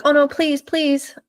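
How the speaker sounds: high, pleading little whine; mock begging. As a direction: imitate a dog begging, pitched well up. Voicing the dog begging to play.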